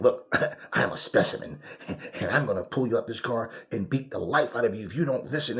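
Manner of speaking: provoking, goading, taunting delivery. Retelling an officer threatening a man in a car: imitating a provoking officer. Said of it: "he's just provoking this guy".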